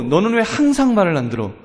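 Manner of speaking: nag, leaning on the sweeping word; mock parental complaint; exaggerated scolding. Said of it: "그 말을 과장하는 겁니다".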